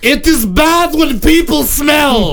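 lightly voiced dim caveman, talking about himself; a hint of a brute barbarian making threats; barbarian Croc. A host playing Croc lightly as a dumb brute, telling the panel his rule on smelly people. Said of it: "Croc is now subbing in".

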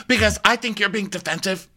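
mock argument. Rinna accusing Garcelle of defensiveness, high mock insistence. Acted Rinna in retold quarrel.

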